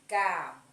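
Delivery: Cabelo in loud pieces, long "be"; stress on middle syllable. Shown as a demonstration. Teacher quizzing pupils on the strong syllable, stress on the "be" of Cabelo. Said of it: "qual foi a sílaba mais forte?".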